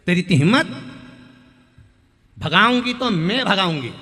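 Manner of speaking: loud, possessive scold; furious outburst. Acted. Mother-in-law furiously scolding her daughter-in-law. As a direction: assert who is boss.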